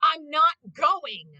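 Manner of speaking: flat refusal drawn out; Vegeta voice. Retold or imitated. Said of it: "And he's like".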